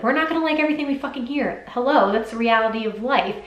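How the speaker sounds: exasperated outburst. Real, not acted. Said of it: "sorry, I just popped off".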